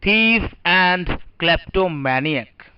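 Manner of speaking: every word stretched out very slowly; very slow dictation. Shown as a demonstration. Teacher dictating new words to students, very slowly. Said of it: "लिख लीजिए पहले आप लोग".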